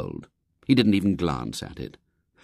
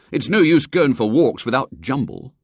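put-on higher, louder sulky boy voice; grumbling boy; 5 semitones higher, 5 dB louder than usual. William complains to mother.

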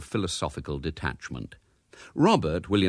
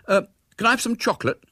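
wheedling; 5 dB louder, faster than usual. Acted. Boy begging his mother.

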